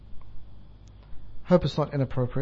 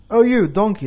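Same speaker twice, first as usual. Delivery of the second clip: louder, insistent mock call; 3 semitones higher, 6 dB louder than usual. Monkey calling the donkey who doesn't reply, insistent calling. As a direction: call out louder to someone ignoring you. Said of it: "starts to call".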